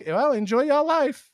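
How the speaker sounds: high, slow sing-song "enjoy y'all life"; cheery retort. Retold or imitated. Comedian's retort to insults, high and cheery. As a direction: kill the insult with bright cheer. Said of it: "my new retort to people".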